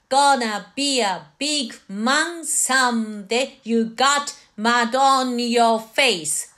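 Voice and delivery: spoken, evenly timed lyric read-through; measured spoken model for learners; reading practice. Shown as a demonstration. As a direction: read the lyrics in steady rhythm without singing. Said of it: "はじめは読みの練習".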